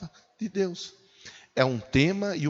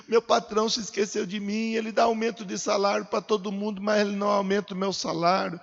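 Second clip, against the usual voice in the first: acted fretful believer, higher and quick; worried complaining; 5 semitones higher than usual. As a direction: grumble in a rapid, raised sing-song. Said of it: "você não precisa ficar preocupado".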